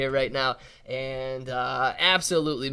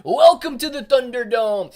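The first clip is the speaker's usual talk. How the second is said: announcer voice; 7 semitones higher, 9 dB louder than usual. Pretend. Announcer catchphrase to guests.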